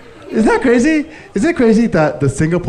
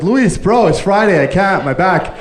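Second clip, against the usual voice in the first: higher, pleading horse whining to the boss; whiny complaining horse; 5 semitones higher, 3 dB louder, slower than usual. Pretend. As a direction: beg the boss for the day off. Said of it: "He started complaining to his boss".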